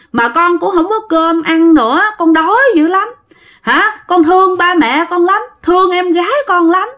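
put-on high, tearful pleading of a lost little girl; crying child spirit. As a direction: beg through tears in a child's high voice. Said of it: "vừa nói mà vừa khóc". (giọng bé gái cao, vừa nói vừa khóc)

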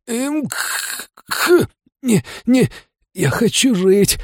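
very high, slow choking plea; wounded girl begs to live, high and halting; dying girl. Acted. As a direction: stammer it out while choking on blood. Dying girl chokes, spits blood.

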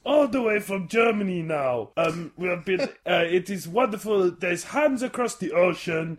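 slowed, hammed German accent; comic German diplomat; mock German accent. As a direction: make a pompous diplomatic speech in German accent. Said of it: "German accent actually started to work".

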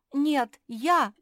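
high, very loud objection; loud, insistent interruption; interrupting. A narrator's reading. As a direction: cut in sharply with a rival claim. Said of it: "перебила его спутница".

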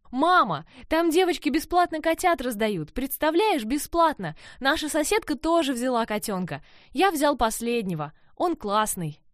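high, eager rush of news; breathless-with-news, high-pitched boy's pleading; excited child. Acted. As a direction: gush to mum like a thrilled kid. Excited boy bursts in with kitten.

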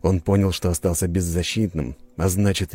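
ordinary delivery, nothing marked

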